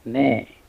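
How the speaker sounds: "ne" said alone as the stressed syllable; "ne", set apart with a short vowel as in bed; stressed syllable demo. Shown as a demonstration. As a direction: isolate "ne" as a clear teaching example. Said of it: "primary stress is on the second syllable".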